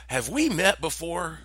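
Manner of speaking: lightly voiced nosy stranger; friendly stranger. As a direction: probe while sounding harmless. Stranger questions him.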